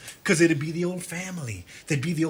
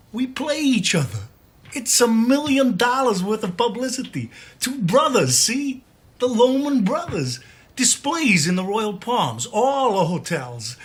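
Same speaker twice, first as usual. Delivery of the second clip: excited pitch; 5 semitones higher than usual. Acted. Brother pitches his business scheme.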